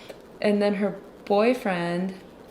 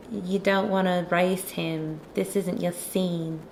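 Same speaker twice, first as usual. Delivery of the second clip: slow, put-on Australian accent. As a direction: imitate an Australian girl's accent, drawn out. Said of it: "she has an Australian accent".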